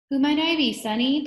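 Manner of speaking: high, loud cackling granny voice; loud, high old-granny cackle; cackling grandmother. A narrator's reading. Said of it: "Paul cackled. He sounded like somebody's grandmother".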